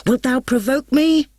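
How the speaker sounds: high, loud furious shout. A narrator's reading. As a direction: roar the challenge. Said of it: "shouted Romeo".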